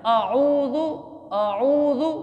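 आऊज़ु with clear ain and long oo; correct pronunciation. Shown as a demonstration. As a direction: model आऊज़ु as a-'oo-zu. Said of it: "उसको सही करना है हमने". (आऊज़ु, आइन साफ़ निकाल कर)

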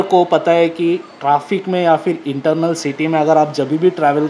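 muffled inside full helmet; speaking behind fabric mask; through a face covering. Real, not acted. Seen 3: Full helmet on, balaclava covering mouth throughout the labelled words.

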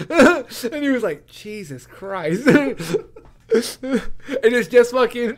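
high, slow words through real laughter; laughing. Real, not acted. Retelling a favorite joke from the show, laughing. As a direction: crack up while telling it.

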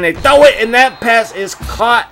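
quick hype; excited call. Real, not acted. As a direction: jump on the throw. Pass thrown.

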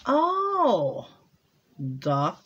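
sudden realization. Real, not acted. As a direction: burst out as it comes back to you.

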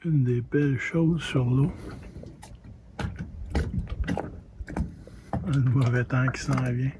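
gusts hitting the microphone; talking into strong wind outdoors; wind on mic. Real, not acted. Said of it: "Désolé pour le vent".

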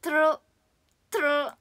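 トロロ with rolled r's. Shown as a demonstration. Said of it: "ルカロで終わることは".

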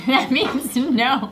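slow, laughing through it. Real, not acted. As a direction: laugh as you say it. Host laughs at the answer.

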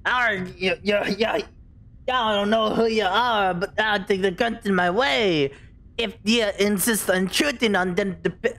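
lightly voiced pirate-like cartoon crab; Mister Krabs. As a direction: attempt a hint of a crusty seafarer. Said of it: "Can I just speak like Mister Krabs?".

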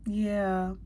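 a breathy unvoiced yeah; whispered approval. Real, not acted. Reacting to the scent, a soft whispered yes. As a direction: murmur it while savoring. Smelling the perfume.

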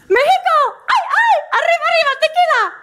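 a cartoonish Mexican shout; mock Mexican accent. Teacher mocking Mexican speech for the class, hammed-up Mexican accent. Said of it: "au Mexique".

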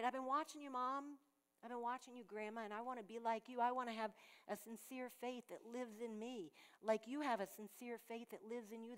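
a hint of a child speaking to mom and grandma; Timothy to his mom. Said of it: "Timothy could have said that to his mom".

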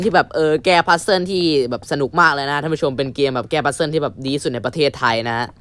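lightly put-on formal presenter tone; polite show host voice. Host addressing viewers in a mock polite presenter voice. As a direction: play the courteous TV host selling the game. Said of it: "พวกกูเลิกพูดเสียงแบบนี้ดีกว่า".

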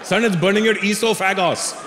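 imitated Indian dad; dad's Indian accent. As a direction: lecture son in an Indian father's accent. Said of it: "as my dad would say".

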